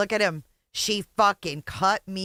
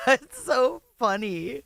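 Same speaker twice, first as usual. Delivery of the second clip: laughing; 4 semitones higher, slower than usual. Real, not acted. Laughing at the man's complaint.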